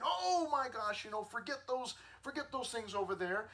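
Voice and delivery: high, breezy "oh my gosh" mock; lightly hammed-up gushing; mock dismissive gush. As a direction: parody a shallow scroller moving on. Mocking fickle social media reaction.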